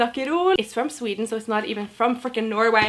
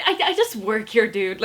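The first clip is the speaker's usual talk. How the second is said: flustered stammer; 4 dB louder than usual. Retold or imitated. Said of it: "I'm like".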